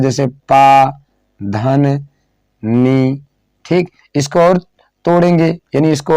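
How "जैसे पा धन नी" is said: पानी broken into पा, धन, नी with a pause after each piece; teacher splitting पानी into separate syllables; syllables split apart. Shown as a demonstration. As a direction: sound out पा, धन, नी one at a time. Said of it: "पानी को अलग-अलग किया जा सकता है".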